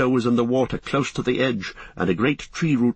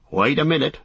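eager cry; 5 semitones higher than usual. Acted. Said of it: "cried Sam".

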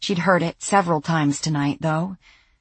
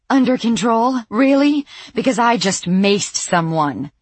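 much higher and louder, disbelieving; incredulous anger; 6 semitones higher, 5 dB louder than usual. Acted. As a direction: throw the words back at him furious. Sandy incredulous at repeated phrase.

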